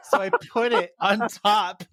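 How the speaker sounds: laughing through the words. Real, not acted. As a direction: giggle while telling it. Laughing shout while retelling.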